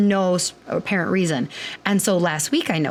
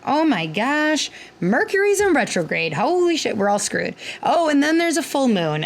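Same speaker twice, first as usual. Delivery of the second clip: higher, half-joking alarm about Mercury; mock panic; 5 semitones higher than usual. Imitating panicked patients to listener, mock alarm. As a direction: play up the patients' panic, tongue in cheek.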